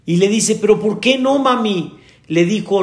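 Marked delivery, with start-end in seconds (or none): 0.5-2.0 higher voice for the daughter's plea; pleading daughter. Retold or imitated. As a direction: plead like a hurt young girl.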